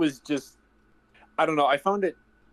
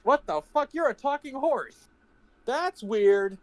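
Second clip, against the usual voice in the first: high, incredulous guy voice; acted bystander; 5 semitones higher than usual. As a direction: play a freaked-out neighbor, pitched up. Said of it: "This one's like".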